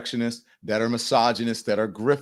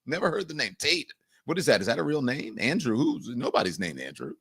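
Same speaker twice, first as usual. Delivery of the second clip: softer, fumbling feigned ignorance; a hint of a Trump impression, softer; mock Trump; 2 semitones higher, 5 dB quieter than usual. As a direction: play dumb as Trump dodging the name. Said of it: "Comparing it to Donald Trump, who says".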